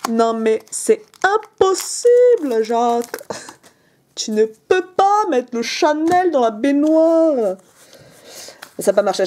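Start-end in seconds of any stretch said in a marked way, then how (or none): 0.1-7.6 slow, drawn-out posh lady voice; bourgeois accent. Acted. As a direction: stretch every vowel like a snob. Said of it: "Faut que je refasse la bourgeoise". (accent bourgeois très traînant)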